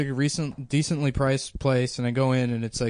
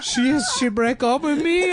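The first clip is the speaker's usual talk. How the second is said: very high, stammered imitated wail; hammed-up heartbroken blubbering; mock sobbing; 5 dB louder than usual. Mexican landlord crying on renter's shoulder, hammed-up sobs. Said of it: "And then he starts crying".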